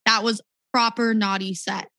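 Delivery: American "proper naughty", r kept, tapped t; American accent. Shown as a demonstration. Rehearsing a line for a visiting DJ, American accent. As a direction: say "proper naughty" plainly American, "nah-dee". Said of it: "could you do it in an American".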